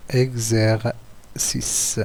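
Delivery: slow "exercice", broken before the last syllable. Shown as a demonstration. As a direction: draw out "exercice" as exer, cice. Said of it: "on a quatre syllabes".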